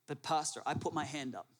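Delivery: a meek, hesitant objection to the pastor; protesting churchgoer. Acted. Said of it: "I know what you're thinking".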